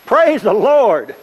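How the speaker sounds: high, drawn-out joyful holler; loud spontaneous praise shout; real loud shout. Retold or imitated. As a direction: shout it out slowly, straight from the gut. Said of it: "just real loud".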